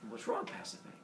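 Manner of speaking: high, airy worried question; concerned king. Acted. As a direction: ask her gently, alarmed. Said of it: "Minos goes".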